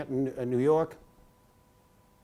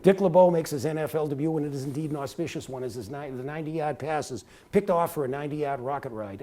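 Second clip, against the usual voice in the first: play-by-play. Shown as a demonstration. Rookie broadcaster showing off to a Hall of Famer, in play-by-play style. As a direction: call the play like a football broadcaster. Recites his old football commentary.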